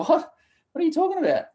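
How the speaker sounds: high, startled disbelief; a son thrown by his mother's odd question; retold bewilderment. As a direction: pitch shoots up in confused alarm. Retold confusion at his mum.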